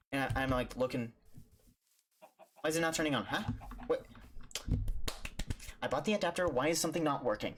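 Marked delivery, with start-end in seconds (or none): 2.6-7.5 reliving panic. Retold or imitated. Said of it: "I'm freaking out".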